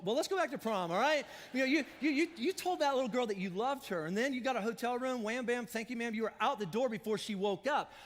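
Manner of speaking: a touch of an outraged accuser; mounting accusatory rant. Pretend. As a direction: lay out each sin like evidence. Preacher heats up listing sins.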